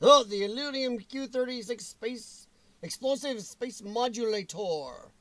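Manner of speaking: slow, attempted cartoon character voice; half-managed character impression; failed cartoon voice. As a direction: have a go at a cartoon villain. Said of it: "I can't even do the voice".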